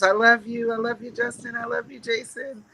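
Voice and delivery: high-pitched gushing mom voice; doting mom. Acted. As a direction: gush love at your sons. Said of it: "I'm one of those moms".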